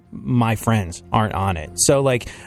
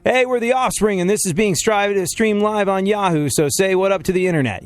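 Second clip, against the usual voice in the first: rock band frontman; 6 semitones higher than usual. Retold or imitated.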